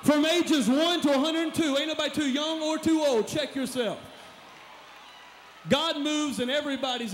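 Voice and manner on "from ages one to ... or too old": crowd call. Real, not acted. Calling ladies to stand.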